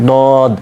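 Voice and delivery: "দদ" with tongue edge on the upper molars, heavy d; heavy Arabic "দদ"; teacher introducing the unique letter; Arabic dad. Shown as a demonstration. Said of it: "খেয়াল করেন কীভাবে করব আমরা".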